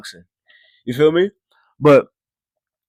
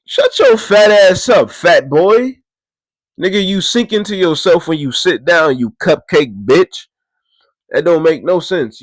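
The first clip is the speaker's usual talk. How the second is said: loud roast; 4 semitones higher, 4 dB louder than usual. Retold or imitated. Roasting the fat boy behind him, loud insults. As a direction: tear into him loudly.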